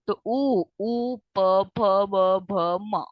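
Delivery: प फ ब भ म said with the lips closing; lip sounds demo. Shown as a demonstration. Teacher demonstrating lip letters, careful sounding out. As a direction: press the lips for each letter. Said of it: "बिना lips के use के आप नहीं pronounce कर सकते".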